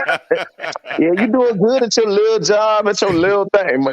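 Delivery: put-on patronizing coo; condescending mock praise. Acted belittling of someone's job.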